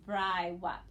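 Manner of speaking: Bri whop, syllable by syllable; modelling the pretend word Bri whop; sounding out the word. Shown as a demonstration. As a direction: read Bri whop aloud for the class, slow and clear. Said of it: "I'll read this time with you".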